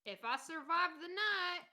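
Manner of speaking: ominous parting line. Acted. Character leaving for bed casts doubt on surviving, ominously. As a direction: lift it into a dramatic, doubtful farewell. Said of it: "Why did you have to say it like that?".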